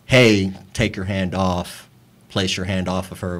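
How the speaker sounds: softly voiced, polite version of the demand; mild request. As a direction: ask gently, unhurried and low. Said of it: "it was not in a".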